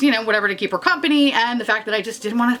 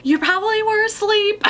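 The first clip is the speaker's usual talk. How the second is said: laughing quote; 11 semitones higher than usual. Real, not acted. Retelling mom, laughing at memory.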